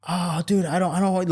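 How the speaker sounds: a touch of mock panic; panicking friend. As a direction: imitate a friend starting to panic. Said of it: "he starts panicking".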